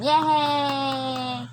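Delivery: long drawn-out cheer. Real, not acted. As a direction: stretch the hooray out slowly. Cheering for a child.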